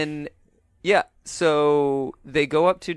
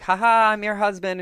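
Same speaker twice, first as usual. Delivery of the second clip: higher, laughing mock cheer; mock jolly reveal; 6 semitones higher, 3 dB louder than usual. Host mocking the husband's reveal, laughing and hammy. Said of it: "he's like".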